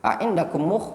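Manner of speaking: high, slow Arabic rebuke; Arabic scolding. Shown as a demonstration. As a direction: ask it slowly in a put-on voice. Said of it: "Kalau ditanya". (teguran lambat bahasa Arab dengan suara dibuat-buat)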